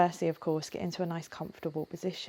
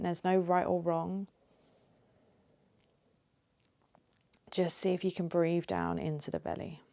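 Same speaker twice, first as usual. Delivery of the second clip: gentle guiding voice with long pauses; lightly held meditation-teacher delivery; guided meditation. Acted. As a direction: ease them into it, unhurried, leaving space between phrases. Leads a guided breathing meditation.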